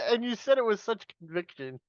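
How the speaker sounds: high, tickled from laughing; amused. Real, not acted. Host teasing a co-host's conviction, amused. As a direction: say it fresh out of a laughing fit.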